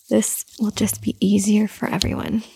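hushed caring whisper; soft whisper. Acted. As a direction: whisper it gently like a soothing mother.

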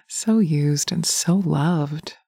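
slow, tender and lingering; slow savoring murmur. Acted. Lover savoring the afterglow, slow tender murmur. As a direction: linger on every word.

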